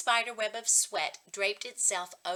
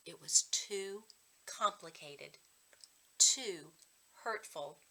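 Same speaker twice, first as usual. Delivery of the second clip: whispered, slow and much softer; hushed narration; 3 semitones lower, 6 dB quieter, slower than usual. A narrator's reading. Narrator confiding Evan's hidden hurt, whispered. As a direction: let it fall to a breath.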